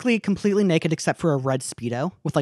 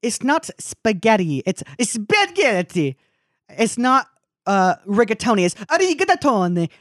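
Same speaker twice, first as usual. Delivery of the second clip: put-on a light Italian accent, slow and a bit higher; imitating Italian lady; 4 semitones higher, slower than usual. Retelling a TikTok of an Italian lady, light Italian accent. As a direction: sketch the Italian lady's careful Italian pronunciation. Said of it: "this Italian lady is just like".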